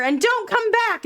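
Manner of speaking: loud, high bellow after fleeing foes; hammed-up angry bellow. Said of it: "as Missus Claus bellows".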